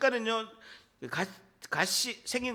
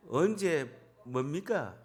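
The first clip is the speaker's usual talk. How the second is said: slow, tentative Pohang accent; lightly Pohang-accented, lower question; Pohang dialect; 4 semitones lower, slower than usual. Shown as a demonstration. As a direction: try out a Pohang lilt slowly. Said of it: "포항 사투리 뭐라고 합니까".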